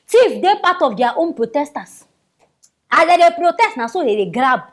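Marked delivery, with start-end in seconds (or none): 2.9-3.8 louder, rising on dey; emphatic build-up. Real, not acted. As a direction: push the setup up before the punchline. Mocking looting protesters, rhetorical build.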